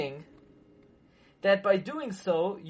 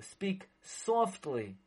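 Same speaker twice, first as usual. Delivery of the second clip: slow and much softer; gently hushed advice; speak softly; 7 dB quieter, much slower than usual. Shown as a demonstration. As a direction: soften right down, slowly, as you advise.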